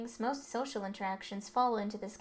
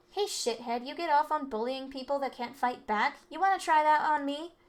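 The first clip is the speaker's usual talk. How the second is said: rising louder and higher threat; building rage; 4 semitones higher, 4 dB louder than usual. Acted. Delinquent confronting the rich kid, building angry threat. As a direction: square up to the bully.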